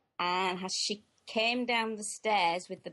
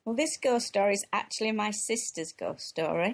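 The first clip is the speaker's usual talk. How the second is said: posh voice. Pretend. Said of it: "You don't have to do it in a posh voice".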